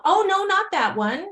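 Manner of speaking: high-pitched dismissal; emphatic objection. Retold or imitated. Nosy neighbor rejecting the wrong beanie, emphatic objection. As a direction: wave it off in a high voice. Correcting him about the beanie.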